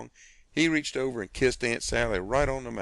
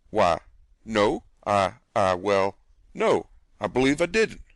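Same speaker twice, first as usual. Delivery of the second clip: put-on flustered old gentleman; 6 dB louder than usual. Old gentleman caught off guard.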